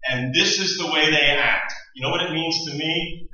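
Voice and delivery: God's lament. Acted.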